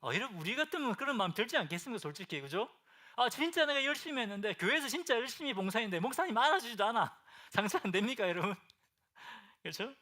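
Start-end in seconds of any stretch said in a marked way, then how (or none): 3.2-7.2 higher, louder, aggrieved whine; a hardworking member who feels ignored; hurt churchgoer's complaint. Retold or imitated. Church member complaining the pastor never noticed, loud and aggrieved.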